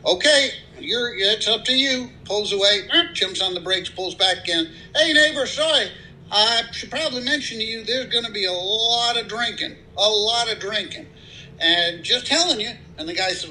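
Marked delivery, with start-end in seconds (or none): 0.1-2.1 high-pitched voice for the friendly country neighbor. Acted. Guy in pickup greeting new neighbor, high-pitched friendly voice. 5.0-12.7 high-pitched voice for the friendly country neighbor. Acted. Guy in pickup greeting new neighbor, high-pitched friendly voice.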